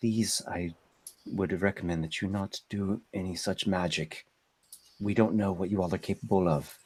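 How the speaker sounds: surprisingly soft, very quiet, hushed, soft-spoken voice. Voicing Grimtongue speaking to the group, in a soft Grimtongue voice. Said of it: "speaks in uh, actually a surprisingly soft voice".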